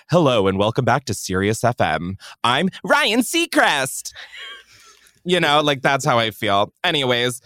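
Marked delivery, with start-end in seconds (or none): 0.1-4.1 smooth radio DJ intro; radio host voice. Pretend. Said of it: "I sound like a radio host".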